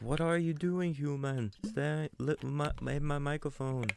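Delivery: high, put-on Jamaican cat voice; Jamaican-ish cat. Host voices the cat staring at people, mock Jamaican accent. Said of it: "what accent that I've attributed to my cat".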